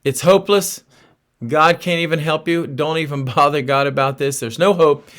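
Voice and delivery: taunting voice of doubt; voice of hopelessness. Retold or imitated. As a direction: play the nagging voice that says give up. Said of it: "Do you ever hear that voice that says".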